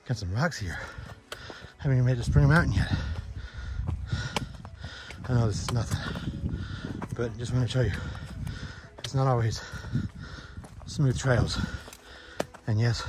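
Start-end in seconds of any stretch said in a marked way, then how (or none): 0.1-11.6 huffing and puffing while hiking; out of breath. Real, not acted. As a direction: talk between heavy breaths on a climb. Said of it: "I'm still huffing and puffing".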